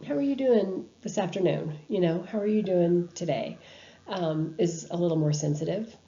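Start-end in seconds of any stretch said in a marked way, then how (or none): 0.0-1.7 toned down. Shown as a demonstration. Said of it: "toning it down a little bit". 2.2-3.6 calm, even, gentle greeting; toned down. Shown as a demonstration. Greeting a dying patient in a toned-down, sensitive way. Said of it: "toning it down a little bit".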